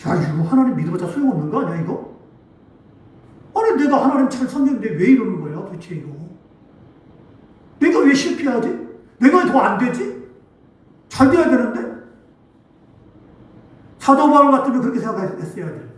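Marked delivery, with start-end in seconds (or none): 0.1-11.9 acted mild resentful grumble; grumbling. Preacher imitating a believer who feels faith was useless, grumbling. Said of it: "원망하고 불평하기 시작합니다".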